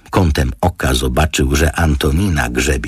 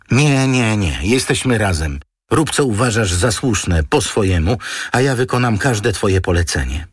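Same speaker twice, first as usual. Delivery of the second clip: higher, urgent woman's voice; anxious to stay together; Antonina, eager; 7 semitones higher than usual. A narrator's reading.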